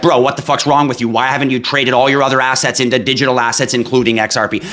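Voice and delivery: half-joking exasperated rant; mock exasperation. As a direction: berate a friend in pretend disbelief. Acted blunt advice to viewer.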